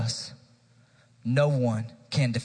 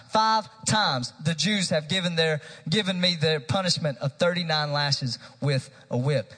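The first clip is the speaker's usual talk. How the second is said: raised, driving preacher's reading; impassioned scripture reading; 3 semitones higher than usual. Acted. Preacher reading Paul's list of sufferings to church, impassioned. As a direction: read it out forcefully as Paul's defence. First read-through of Paul's defence.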